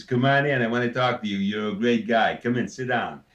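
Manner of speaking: a hint of Phil Silvers, friendly smooth talker; plain take of the Phil Silvers voice before enlarging it; lightly voiced Phil Silvers. Shown as a demonstration. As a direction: close to his own voice, a smiling con-man welcome. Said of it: "it's the smile, it's the attitude".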